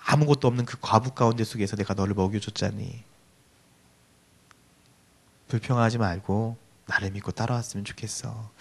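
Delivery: soft, hushed comfort from God; God speaking softly. Acted. Preacher voicing God, comforting struggling youth, soft and tender. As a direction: lean in and console them gently, as God. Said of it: "이렇게 속삭이지 않을까".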